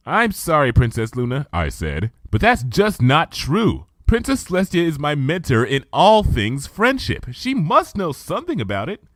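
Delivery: earnest protest to her elder; Twilight's eager voice. Acted. Twilight defending her mentor to Luna, earnest.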